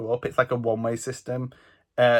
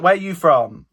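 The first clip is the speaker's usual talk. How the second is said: put-on angry old man; 3 semitones higher, 6 dB louder than usual. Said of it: "he was clearly angry".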